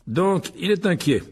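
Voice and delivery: high, slow gloating; fierce satisfaction. Acted. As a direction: savour it slowly with fierce glee. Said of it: "avec une satisfaction féroce". (satisfaction féroce)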